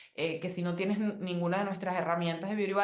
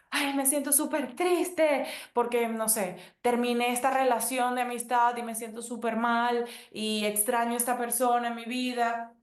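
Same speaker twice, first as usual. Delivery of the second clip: higher, whiny lament, lightly acted; mock sad lament; 4 semitones higher than usual. Friend mourning an ended friendship: lightly acted high whine. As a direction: play a friend wallowing after a lost friendship, pitched up.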